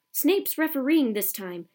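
"Snape's refereeing this time" as a loud, falling announcement; yelling. A narrator's reading. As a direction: lean on "Snape's" as a stern warning. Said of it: "he yelled".

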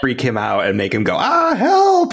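mock panic. Acting out scared fleeing man.

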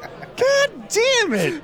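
slow, high, exasperated; drawn-out groan of exasperation. Real, not acted. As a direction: draw out each word, fed up.

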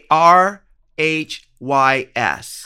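R H Y S spelled slow, letter by letter; spelling it out. Shown as a demonstration. Correcting a friend's spelling, slow and deliberate. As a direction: spell R H Y S slowly and clearly. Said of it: "you spelled it wrong".

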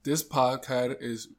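slow start that cracks into real laughter; breaking into laughter. Real, not acted. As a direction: try to read it, lose it to laughing. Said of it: "I can't do".

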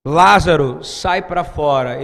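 a loud, slow call of Lázaro; loud cry. Retold or imitated. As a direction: call the dead man out, drawn out. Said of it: "ele gritou chorando".

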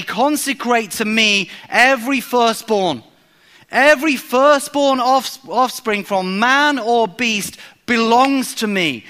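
slow and weighty, every firstborn stressed; emphatic divine decree. Acted. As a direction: declare it as God's command, slowly. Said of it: "the language is really emphatic".

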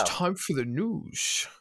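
slow, twangy mock newsreader voice; news intro with twang. Host opening the news segment to Jay, mock newsreader twang. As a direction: announce the news with an odd twang. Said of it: "I'm doing a weird twang on it".

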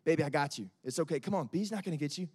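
put-on calm a scared child down gently; soothing parent. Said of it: "and say".

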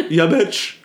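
laughing through a joking yeah bitch. Real, not acted. Host laughing along with her co-host's joke, laughing. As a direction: toss it off mid-laugh.

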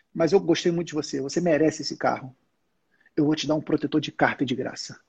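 acted low, ingratiating salesman; salesman's soft confiding. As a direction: confide a special favour to a valued client. Salesman flattering client with gift.

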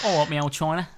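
lightly put-on Cockney; mock Cockney accent. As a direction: play at a Cockney greeting. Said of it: "he didn't cockney it up".

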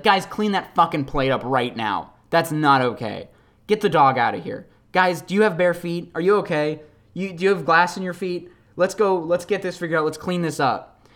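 lightly acted firm parental orders; concerned parent taking charge. Parent telling kids to clean up a broken plate, mildly urgent. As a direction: take charge like a worried parent.

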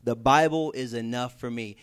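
a mild, imitating hint of condescension; lightly hammed-up know-it-all Christian brushing off books; mock condescending. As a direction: talk down a little, like you know better. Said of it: "they say it in a slightly condescending voice".

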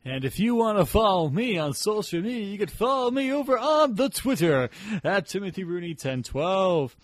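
smooth radio host delivery. Acted. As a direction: announce it like a DJ. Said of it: "Doing my radio voice".

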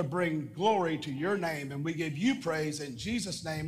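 earnest prayer over the church. Acted. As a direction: pray it out, steady and heartfelt. Leads congregation in prayer.

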